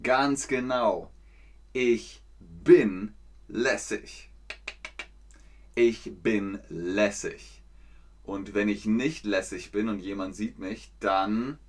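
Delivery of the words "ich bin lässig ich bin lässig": cool. Shown as a demonstration. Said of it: "slow cool model line".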